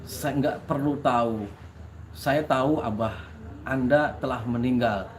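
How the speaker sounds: retold in an unhurried, polite manner; polite visitor. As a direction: imitate a courteous guest, pausing between phrases. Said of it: "Beliau dengan santunnya, dengan ngomongnya seperti ini".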